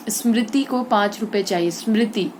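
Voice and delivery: स्मृति with its मृ syllable stressed. Shown as a demonstration. Teacher repeats the example for pupils, stress on मृ in स्मृति. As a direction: lean on मृ each time in स्मृति. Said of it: "री पर ज्यादा पड़ा".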